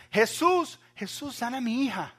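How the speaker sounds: high, loud cry for help; pleading shout. Retold or imitated. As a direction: call out begging him to heal her daughter. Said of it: "esta mujer gritando". (grito suplicante, agudo y fuerte)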